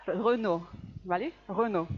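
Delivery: "Renault" said /rono/, no final t; "Renault" with silent ending; French pronunciation. Shown as a demonstration. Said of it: "¿cómo se pronuncia esta marca?".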